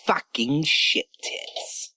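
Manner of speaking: slow breathy whisper of the phrase; whispered slow repeat. Acted. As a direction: whisper it slowly back.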